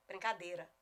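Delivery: BRINCADEIRA as "brin-ca-DÊ-ra", no glide; reduced vowel pronunciation. Shown as a demonstration. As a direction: drop the I in BRINCADEIRA. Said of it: "perdendo um".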